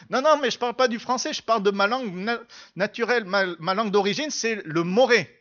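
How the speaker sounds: eager correction, pitch lifted at first; mildly excited student explaining himself; enthusiastic student. Retold or imitated. Student correcting the pastor about his native language, enthusiastic. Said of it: "il était tout enthousiaste".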